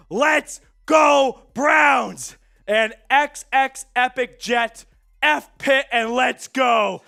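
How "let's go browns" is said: shouted, upbeat team cheer. Real, not acted. The same cheer said loudly.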